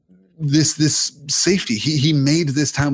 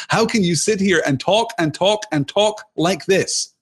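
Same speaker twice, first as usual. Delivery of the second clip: higher, hammed-up exasperation; mock her whining complaint, pitched way up; exasperated parishioner; 7 semitones higher than usual. Mocking the parishioner nagging the congregation, exaggerated exasperation. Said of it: "the female parishioner stands up and says".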